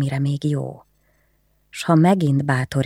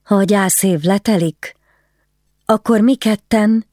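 timid question; 6 semitones higher, 4 dB louder than usual. Acted. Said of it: "kérdezte Anna félénken".

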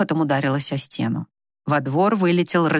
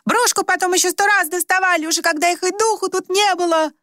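much higher, shrill yelling; shrieking; 13 semitones higher than usual. A narrator's reading. Rimma shrieks at her sister to stop blaming them. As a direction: scream back in protest. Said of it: "визжала Римма".

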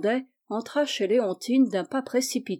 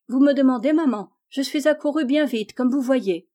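put-on sugary child voice; 3 semitones higher, 5 dB louder than usual. Gisèle feigns eager sweetness.

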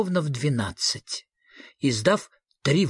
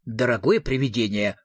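kindly; 3 semitones lower than usual. Acted. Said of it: "ласково сказал Фредриксон".

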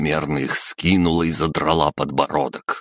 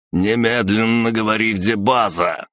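louder, higher angry growl; growled demand; 6 semitones higher, 3 dB louder than usual. A narrator's reading. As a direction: snarl the demand at her. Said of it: "зарычал Рыжий".

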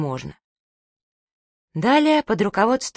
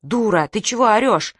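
bristling; 3 semitones higher, 3 dB louder than usual. Acted. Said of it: "взъерепенилась Маня".

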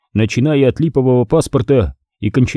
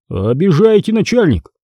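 over-familiar; 7 semitones higher than usual. A narrator's reading. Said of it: "попытался сфамильярничать".

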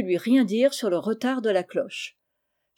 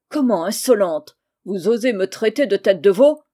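louder, indignant rebuke; outraged master; 7 dB louder than usual. Acted. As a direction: snap at the cheeky servant. Maître furieux contre l'insolente. (maître outré, plus fort)

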